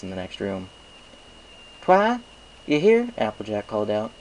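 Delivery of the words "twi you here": high, loud call across the library. Acted. Applejack calls out for Twilight in the library, loud and high. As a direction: call out for your friend.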